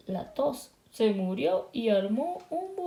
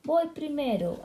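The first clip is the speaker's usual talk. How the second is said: bossy delivery truck; 6 semitones higher than usual. Acted. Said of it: "camión de reparto hizo pitar su bocina".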